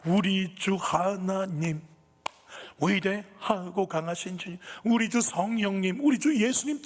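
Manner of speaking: slow, high and loud worship cry; fervent praise. Retold or imitated. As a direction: lift each name up slowly in praise. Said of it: "입을 열기 시작했어요". (느리고 높게 찬양하듯 외치며)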